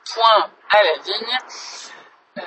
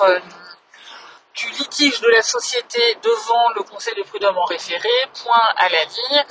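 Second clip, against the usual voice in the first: dictating. Real, not acted. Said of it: "je vous fais une petite dictée".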